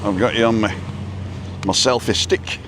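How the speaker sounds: accidental touch of Scottish; playful hint of a Scottish lilt; Scottish accent. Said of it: "I said that in a Scottish accent".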